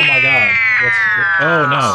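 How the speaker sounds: high, loud mock alarm. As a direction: gasp in staged shock. Robot appears to explode on air.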